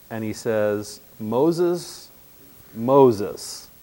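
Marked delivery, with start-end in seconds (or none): 1.2-3.7 calling out. Acted. God calling from the bush.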